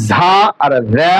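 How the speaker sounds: za misread as jha and ra; wrong forms of za. Shown as a demonstration. Teacher ruling out mistakes, za wrongly said as jha and ra. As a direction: show both faulty sounds for za. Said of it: "এরকম কোনো শব্দ জা নয়".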